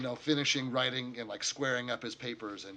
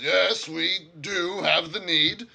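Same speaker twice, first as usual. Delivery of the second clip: slow, higher, louder formal reply; solemn orc; 6 semitones higher, 10 dB louder, slower than usual. Acted. Orc leader accepting the mercenaries' offer, slow and solemn. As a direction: confirm it gravely.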